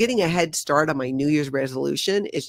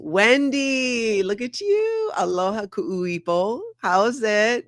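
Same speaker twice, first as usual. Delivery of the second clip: warm Hawaiian Pidgin greeting, much higher on look at you; Pidgin English accent; 5 semitones higher, slower than usual. Real, not acted. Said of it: "my Pidgin English accent".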